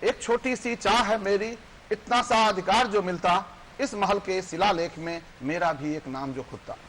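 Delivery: measured verse recital with lifted line ends; poem recitation. Acted. Poet recites a labourer's small wish, declaimed in verse. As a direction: recite it rhythmically to an audience.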